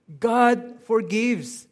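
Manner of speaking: loud, high, slow declaration; ringing, drawn-out preacher's emphasis; triumphant proclamation. Real, not acted. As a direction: proclaim it as good news. Preacher proclaims the good news.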